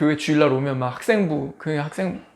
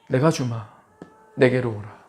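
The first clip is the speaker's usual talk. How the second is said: lightly voiced divine reply; a touch of calm authority; God answering; 3 semitones lower than usual. God inviting the struggling believer to come, calmly.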